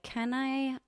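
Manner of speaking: mock whisper. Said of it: "I'm like".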